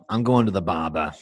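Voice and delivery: put-on Brooklyn accent. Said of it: "I'm in a Brooklyn mood today".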